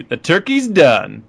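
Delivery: slow, pleased quip; quoting the Human Torch. Retold or imitated. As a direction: savor the line. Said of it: "I'll say a quote".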